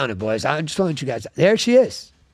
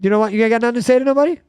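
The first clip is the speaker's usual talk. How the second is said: mock challenge; 6 semitones higher, faster than usual. Real, not acted. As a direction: needle the silent guy at the end of the table. Teasing a quiet guest on the end.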